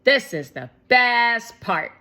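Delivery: put-on high, loud and fast kid excitement; excited little boy. A narrator's reading. Shake telling Shermie about the ice cream money, excited. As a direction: rush it out, thrilled.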